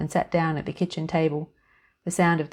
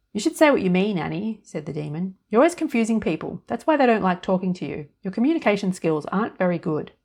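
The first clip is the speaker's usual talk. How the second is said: a touch louder, scolding inner demon; nagging demon; 2 semitones higher, 3 dB louder than usual. Acted. Demon on her shoulder nagging Annie, mildly sneering. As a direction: lecture her like a sneering critic.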